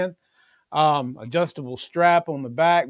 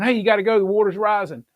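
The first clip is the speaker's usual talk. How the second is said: higher, louder, urgent warning to a sleeper; mock urgent alarm, higher and a bit louder; urgent wake-up call; 6 semitones higher, 4 dB louder, faster than usual. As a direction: rouse someone who's dead asleep. Waking someone for a night flood.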